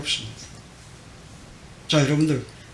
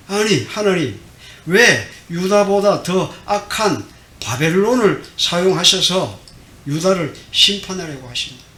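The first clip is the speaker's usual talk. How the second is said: louder, slow, protesting prophet; indignant outburst; 3 semitones higher, 5 dB louder than usual. Retold or imitated. 하박국이 하나님께 따지며 울분을 터뜨리듯, 크고 느리게. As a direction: let the prophet's outrage spill out slowly. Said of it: "그래서 울분을 터뜨립니다".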